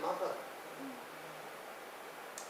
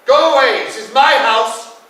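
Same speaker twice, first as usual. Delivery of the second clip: very loud high scream; 10 semitones higher, 20 dB louder, slower than usual. Retold or imitated. Mother screaming at men from the bathroom. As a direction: scream from behind the locked door. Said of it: "She said".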